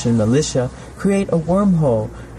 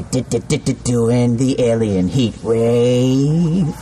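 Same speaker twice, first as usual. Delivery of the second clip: slow stuttering rhythm; stuttered; much slower than usual. A narrator's reading. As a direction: stutter it out like a dance beat.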